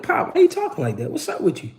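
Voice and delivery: irritated. Retold or imitated. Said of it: "I'm like".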